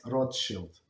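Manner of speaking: "Rothschild" said as ROT-shilt; European pronunciation. Shown as a demonstration. Explaining how Europeans say the surname, European pronunciation. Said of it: "that's how they pronounce".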